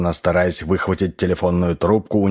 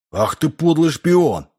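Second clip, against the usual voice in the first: high-pitched accusing outburst; angry bark; 9 semitones higher than usual. A narrator's reading. Mac confronts the unmasked spy, angry bark. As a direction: bark it out in outrage. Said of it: "гаркнул Мак".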